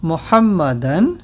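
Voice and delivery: slow, syllable by syllable Arabic dictation; over-enunciate each Arabic word for repeating; said slowly. Shown as a demonstration. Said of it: "I will say this slowly".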